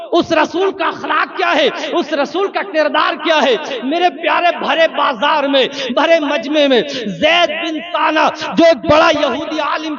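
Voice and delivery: loud, driving sermon voice building to shouts; sway the crowd with a fervent, rising preach; preaching at full force. Acted. Preacher telling the story to the congregation, fervent loud preaching.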